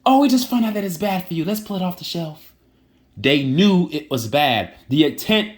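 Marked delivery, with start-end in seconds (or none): 0.0-2.5 high mock official voice; sing-song fake innocence, much higher; mocking the FDA. Parodying the FDA's fake discovery, high mocking voice. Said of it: "And they said".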